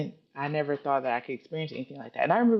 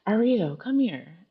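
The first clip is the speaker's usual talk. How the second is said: calling out; 5 semitones higher, slower than usual. Retold or imitated. Mom calls her from another room.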